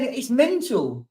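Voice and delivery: slow words stretched by a real yawn; yawning while talking; through a yawn. Real, not acted. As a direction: say it mid-yawn, slowly. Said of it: "I feel it coming again".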